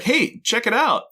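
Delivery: high, slowed "Hey, check it out."; a high squeaky Jack; mock Jack voice. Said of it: "Jack's all like".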